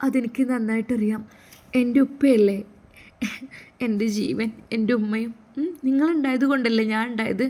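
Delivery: put-on sweet young daughter reassuring father; loving daughter.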